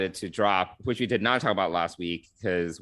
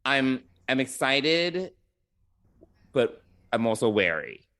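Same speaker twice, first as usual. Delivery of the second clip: careful word choice; 4 semitones higher than usual. Real, not acted. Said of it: "I'm trying to choose my words carefully".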